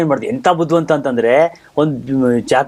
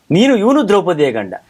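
raised, measured mythological declamation; declaiming stage Krishna; 4 semitones higher than usual. Acted. Krishna actor covering for Bhima's smoke, grand declamation. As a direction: declaim the ad-lib like a stage god.

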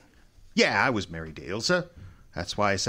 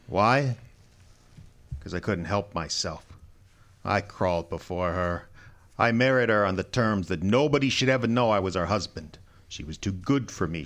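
broken confession; 3 semitones lower than usual. Acted. Husband admitting his torment to Wolfe, low and broken. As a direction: confess it as if crushed.

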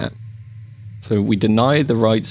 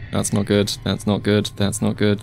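low, softened worried repetition; hushed, mounting dread; anxious muttering; 5 semitones lower, 4 dB quieter than usual. Real, not acted. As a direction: mutter it over and over under your breath. Trapped by game monster.

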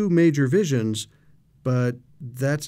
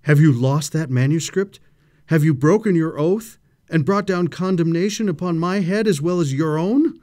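louder, higher, urgent accusing question; alarmed exclamation; 5 semitones higher, 6 dB louder than usual. Acted. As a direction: demand the truth in rising alarm.

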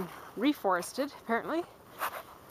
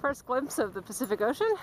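panting after the climb; breathless from the dune; out of breath. Real, not acted. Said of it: "excuse me, I'm panting".

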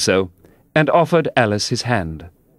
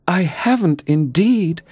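very gentle; 9 semitones higher, slower than usual. A narrator's reading. Alice gently calming Humpty Dumpty. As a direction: soothe him gently. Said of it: "Alice said very gently".

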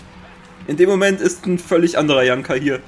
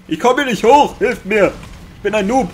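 mock whiny noob; 6 semitones higher, 4 dB louder than usual. Mock whining about himself.

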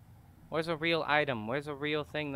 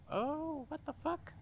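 startled outburst; 13 semitones higher, 6 dB quieter, slower than usual. Real, not acted. Startled by the microwave.

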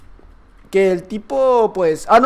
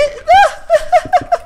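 shrieking laugh; 4 dB louder than usual. Real, not acted. Laughing at game chaos.

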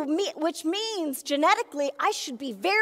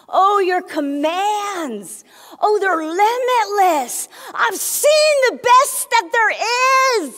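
rising, louder, slow fervent praise; 4 dB louder than usual. Acted. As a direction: call it out to God in awe. Praising God with emotion.

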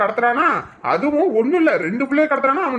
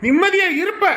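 angry sarcasm; 7 semitones higher than usual. Acted. Husband scoffs angrily.

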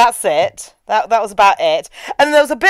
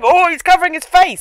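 mock horror; 6 semitones higher than usual. Mock horror at character's reaction.

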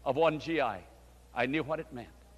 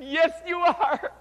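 slow, higher, louder yes; firm insistence; 11 semitones higher, 5 dB louder, slower than usual. Retold or imitated. Pastor insisting to Carol she will come, slow and louder. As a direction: lean into it, won't take no.

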